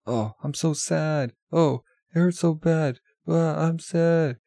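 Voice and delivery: high, slow hammed-up whimpering lament; mock crying. Egging a friend on to fake tears, hammed-up mock crying. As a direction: ham up a fake sob, drawn out and high. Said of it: "pretend to cry with me".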